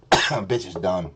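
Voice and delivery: low, slow verdict; low dismissal. Real, not acted. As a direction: drop it low and draw it out. Dismisses co-host, first low.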